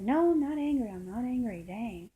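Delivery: imitating her annoyed protest, high loud start tailing off; mock a defensive, huffy denial; irritated denial. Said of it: "you're kinda angry at me".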